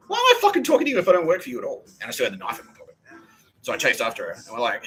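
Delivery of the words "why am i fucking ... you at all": mock angry retort. Shouted retort to the woman.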